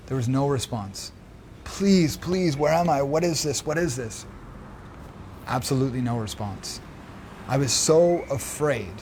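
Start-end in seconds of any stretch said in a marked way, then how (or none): 1.6-4.3 crying out. Retold or imitated. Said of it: "I was crying out".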